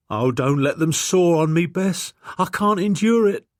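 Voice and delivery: high, loud, tearful pleading; blubbering plea. A narrator's reading. Stable boy begging Bess, blubbering and pleading. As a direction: beg Bess not to let them saw. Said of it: "Tim began to blubber loudly".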